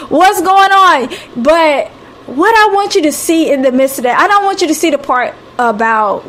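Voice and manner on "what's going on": panicked plea. Retold or imitated. Disciples in the storm crying out to God, panicked. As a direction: plead like scared men on a boat.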